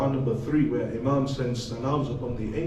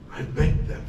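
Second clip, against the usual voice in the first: whispered begging. Acted. Begging in the grave.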